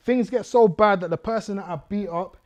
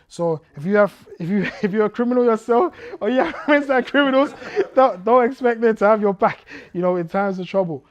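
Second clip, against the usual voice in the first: loud, higher warning broken by laughs; preaching warning; 5 semitones higher, 9 dB louder than usual. Real, not acted. Preacher warning the congregation about criminal friends, loud and laughing. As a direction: drive the lesson home with a loud laugh.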